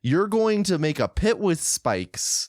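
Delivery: measured, disbelieving repeat-back; incredulous tone. Real, not acted. Co-host repeats the bear-trap plan back, incredulously. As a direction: spell out the plan as if it's absurd. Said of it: "with that tone of voice, it sounds ridiculous".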